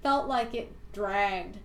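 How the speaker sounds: put-on Valley Girl voice. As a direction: read it like a bored Valley Girl. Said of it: "saying it like a Valley Girl".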